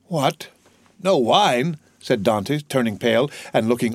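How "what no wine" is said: put-on higher-pitched young man taken aback; dismayed. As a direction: question it in mild shock. Son shocked at empty cupboards.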